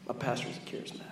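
unvoiced stage whisper; whispered aside. Preacher confiding to the congregation in a whisper. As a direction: whisper it like a shocking secret.

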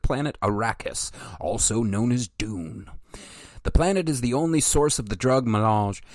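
reading aloud like an encyclopedia entry; steady, measured reading voice; methodical reading voice. Shown as a demonstration. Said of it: "in my melodical, methodical voice".

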